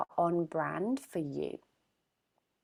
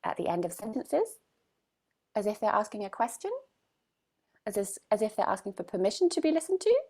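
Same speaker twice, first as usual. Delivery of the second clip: every phrase ends rising like a question; mock upward inflection at the end of each phrase; uptalk demo; 4 semitones higher, much faster than usual. Shown as a demonstration. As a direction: lift the ends of sentences as if asking permission. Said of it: "a lot of women will go up".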